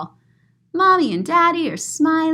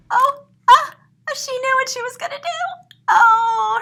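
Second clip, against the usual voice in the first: high, loud wind-up to a sneeze; building sneeze; 13 semitones higher, 4 dB louder than usual. Acted. Reading to a child, acting the coming sneeze. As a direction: gasp and build toward the sneeze. Reader acts Louise about to sneeze.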